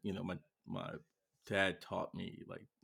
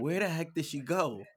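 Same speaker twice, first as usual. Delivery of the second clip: higher, puzzled self-quote; retold bewilderment; 8 semitones higher than usual. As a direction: act out mild bafflement over a missing child. Retelling search for missing daughter.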